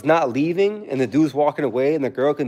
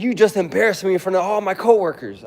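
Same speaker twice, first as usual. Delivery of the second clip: mocking whiny boyfriend; 5 semitones higher than usual.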